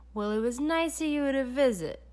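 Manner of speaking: lightly voiced villain ushering out; Doctor Brock. A narrator's reading.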